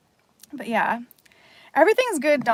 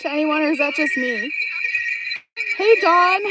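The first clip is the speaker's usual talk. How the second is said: unearthly distorted stream voice; pitch-shifted demonic echo; 8 semitones higher, 6 dB louder than usual. Real, not acted. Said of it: "Why does it sound demonic?".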